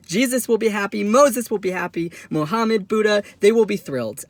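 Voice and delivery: high, rising jubilant list; triumphant boast. Acted. Son boasting to mom of his mission, triumphant. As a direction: proclaim each name in mock glory.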